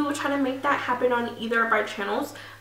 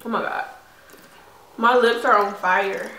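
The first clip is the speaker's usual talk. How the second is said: food too hot. Real, not acted. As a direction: mouth on fire from spice. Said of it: "my mouth is burning".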